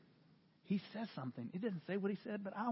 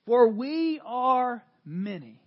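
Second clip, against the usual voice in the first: slow, louder demon voice; 4 semitones higher, 8 dB louder, much slower than usual. Acted. Preacher voicing Legion answering Jesus, slow and loud. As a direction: speak slowly as Legion. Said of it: "And he replied".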